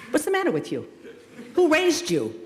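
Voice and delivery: high-pitched comic disbelief; mock indignant scolding. Baffled elder reacting to "like me on Facebook", mock indignant. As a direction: scold as if appalled by their manners.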